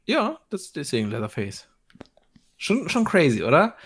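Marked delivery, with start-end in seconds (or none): 0.0-1.7 soft unvoiced whisper. Real, not acted. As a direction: whisper it like a secret. Creepy aside about Leatherface.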